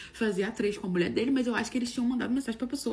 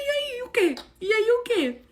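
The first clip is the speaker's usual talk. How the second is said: confused reply; 11 semitones higher, 3 dB louder, slower than usual. Retold or imitated. Confusa respondendo à mensagem.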